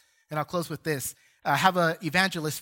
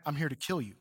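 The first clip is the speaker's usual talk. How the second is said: a half-begun demonic threat, held back; hint of a demon growl; 2 semitones lower, 6 dB quieter, faster than usual. Preacher voicing a possessed man's threat, a hint of growl. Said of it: "I'm not gonna try to mimic his voice".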